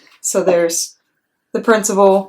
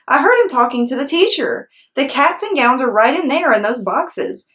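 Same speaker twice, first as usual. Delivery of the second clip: high, excited chatter; excited little girl; 6 semitones higher than usual. Acted. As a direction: spill the news eagerly. Lucille excited.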